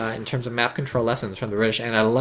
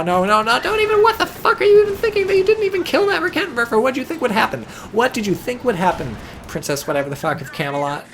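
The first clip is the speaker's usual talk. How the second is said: high, loud disbelieving rant at the player; shrill-free mock outrage, much higher and louder; exasperated rant; 10 semitones higher, 4 dB louder than usual. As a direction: yell at him like he's lost his mind. Berating the player's misplay.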